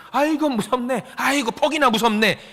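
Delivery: sing-song mocking fright; sarcastic mock fear. Onlooker mocking an angry driver, sarcastic. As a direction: feign being scared, dripping sarcasm.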